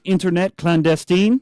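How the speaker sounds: put-on "internet clandestine" in a light French accent; mock French accent. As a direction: roll it out like a Frenchman. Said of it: "pardon my French accent".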